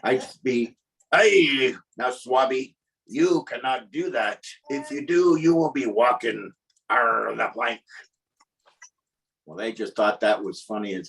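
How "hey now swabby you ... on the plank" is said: lightly voiced pirate scolding; pirate accent. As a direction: warn them like a pirate captain. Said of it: "I'm talking in a pirate accent".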